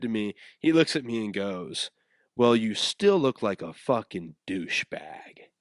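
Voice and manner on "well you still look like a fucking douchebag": slow, deliberate jab; retold insult. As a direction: quote the insult slowly, drawing it out. Quotes friend's parting insult.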